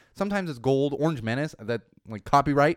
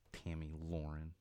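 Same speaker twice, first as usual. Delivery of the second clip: usual speaking voice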